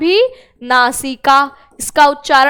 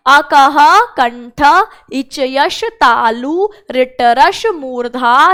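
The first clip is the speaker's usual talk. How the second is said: recitation for repeating. Shown as a demonstration. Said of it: "मेरे साथ दोहराइए". (धीमे-धीमे दोहराने के लिए पाठ)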